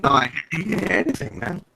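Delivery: robotic echoing call audio; glitchy robotic voice over a bad line. Real, not acted. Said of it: "'Cause you sound like a robot now".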